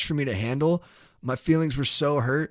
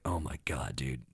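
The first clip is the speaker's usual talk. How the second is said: stunned self; 12 semitones lower, 10 dB quieter than usual. Retold or imitated. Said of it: "And I was like".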